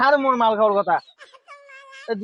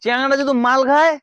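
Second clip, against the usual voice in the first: put-on town drunk; 2 semitones higher than usual. Drunk father boasting.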